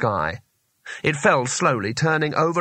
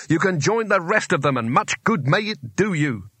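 higher, echoing shout up the tower; 4 semitones higher than usual. Acted. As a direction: yell it into the tower. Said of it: "he shouted".

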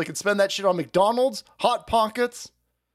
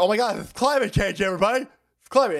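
mock panicked alarmist; 5 semitones higher, faster than usual. Mocking climate alarmists.

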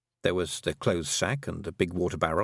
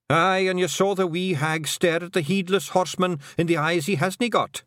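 much higher, excited little Feagle voice; Rob Anybody; 9 semitones higher, 4 dB louder than usual. A narrator's reading. Rob Anybody backing the kelder, high and eager. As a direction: brag about the wee hag, high and eager.

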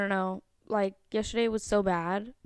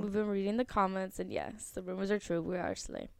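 quiet mock serious; 5 semitones lower, 8 dB quieter than usual. Real, not acted.

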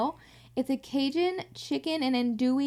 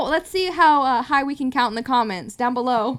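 hammed-up YouTuber hype; 7 dB louder than usual. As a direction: pitch it like a YouTube host. Mock YouTuber engagement bait.

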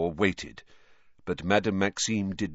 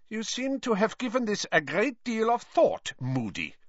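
cold; 13 semitones higher than usual. A narrator's reading. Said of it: "said Karkaroff coldly".

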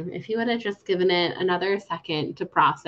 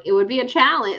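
laughing through quote; 6 semitones higher, 5 dB louder than usual. Retold or imitated. Podcaster retelling Dexter teasing Remy, laughing through it. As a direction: quote spoken through a laugh, higher and louder.

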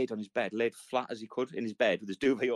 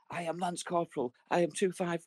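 self-important corporal; 7 semitones higher than usual. Retold or imitated. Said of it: "He's like".

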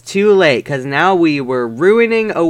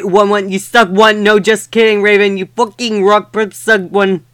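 ranting author's note; 3 semitones higher than usual. Acted. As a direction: snap at the haters.

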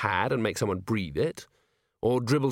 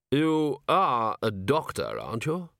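weak patrician; 3 semitones higher, slower than usual. Acted. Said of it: "he said".

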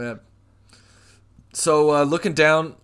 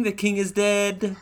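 herald's high proclamation; town crier; 6 semitones higher than usual. Acted. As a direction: announce it to the whole kingdom. Proclamation repeated.

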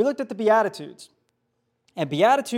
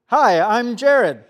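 slow, deliberate hello; slow greeting; 8 dB louder, much slower than usual. Retold or imitated. Jared greets the mugger, slow and deliberate. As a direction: drag out the hello.

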